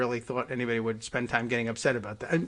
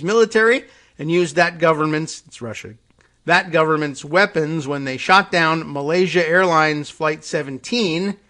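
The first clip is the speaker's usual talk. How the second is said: emphatic, louder reading voice; article read-aloud; 3 semitones higher, 7 dB louder than usual. Real, not acted. Host reading a report to listeners, emphatic read-aloud.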